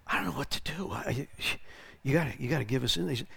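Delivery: soft, helpless aside to God; hushed private prayer. Retold or imitated. Preacher recalling his quick prayer to the Lord, hushed.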